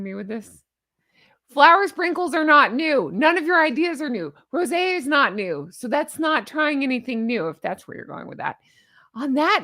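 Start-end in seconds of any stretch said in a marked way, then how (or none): 1.5-7.5 raised ranting voice; yelling. Real, not acted. Yelling back at the newsletter she is reading. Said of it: "I'm yelling". 7.5-8.6 snide whisper under the breath; whispered aside. Real, not acted. Muttering a dig after ranting at the newsletter.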